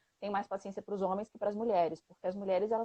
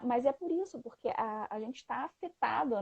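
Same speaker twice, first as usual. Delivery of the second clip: normal talking voice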